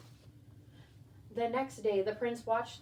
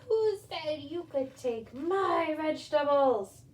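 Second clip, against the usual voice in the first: louder, higher, slow witch's demand; angry witch; 5 semitones higher, 7 dB louder, slower than usual. Acted. Witch catching the thief in her garden, angry and slow. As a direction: snarl it slowly like a cross old witch. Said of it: "he heard an angry voice".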